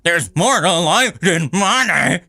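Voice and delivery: incredulous laughing rant. Real, not acted. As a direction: cackle through the outrage. Mocking a commenter's naive remark.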